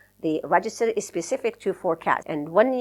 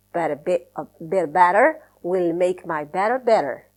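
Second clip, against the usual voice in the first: each word spoken out carefully; careful tongue twister. Shown as a demonstration. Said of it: "practice these type of, uh, strategies with tongue twisters".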